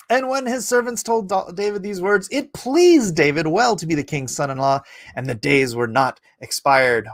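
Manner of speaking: emphatic King James Bible reading; declaimed Old Testament narrative; scripture reading. A narrator's reading. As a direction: read the verse out with measured, weighty stresses. Reads scripture aloud.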